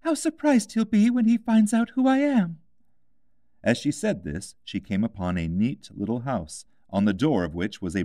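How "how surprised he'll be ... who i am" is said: put-on high, light girl's voice, wistful; a young girl missing her cat; Alice, wistful. A narrator's reading.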